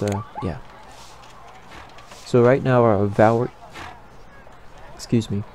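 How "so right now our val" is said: voice cracking. Real, not acted. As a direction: voice cracks mid-word. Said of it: "like, triple voice crack there".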